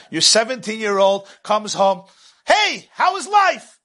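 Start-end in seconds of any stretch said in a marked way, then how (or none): 2.4-3.8 sing-song mother. Retold or imitated. Mother greets teenager.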